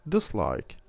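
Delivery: "dislike" stressed on LIKE; light "dis", weight on "like" in "dislike"; stress on the stem. Shown as a demonstration. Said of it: "the stress is kept on the original word".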